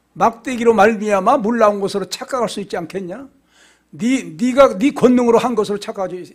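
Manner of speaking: stern, indignant questioning with a touch of anger; wrathful rebuke. Retold or imitated. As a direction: scold as God calling someone to account. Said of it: "진노하신 거예요".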